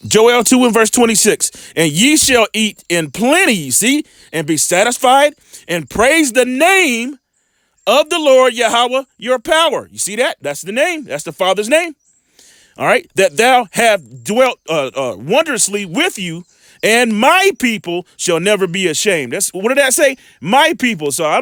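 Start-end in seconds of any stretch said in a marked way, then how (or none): 1.7-9.9 measured, slow Bible reading; preacher reading scripture aloud. Acted. Scripture read aloud in sermon. 13.1-19.3 measured, slow Bible reading; preacher reading scripture aloud. Acted. Scripture read aloud in sermon.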